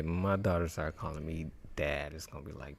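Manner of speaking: usual speaking voice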